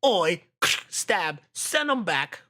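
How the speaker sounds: lightly put-on Cockney, loud Oi; mock London thug, punchy; British accent. Asked for a British accent, streamer hams up Cockney. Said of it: "let me hear your freaking British accent".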